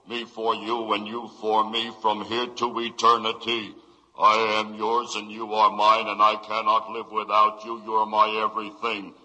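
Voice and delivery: lightly hammy, even-toned love recital; hammy stage actor. Acted. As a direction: recite canned romance like a lightly hammy ham. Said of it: "He's reading back all the canned junk".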